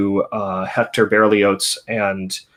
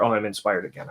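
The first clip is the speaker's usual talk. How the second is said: softer, deflated repeat of the eureka; weary mock inspiration; 6 dB quieter, faster than usual. A letdown echo of the first cry. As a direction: months later, the same student's tired, quieter inspiration. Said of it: "and then two months later".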